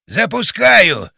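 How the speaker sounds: loud, high, drawn-out call; shouting. A narrator's reading. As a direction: shout the launch warning, stretching the word. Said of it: "крикнул батя".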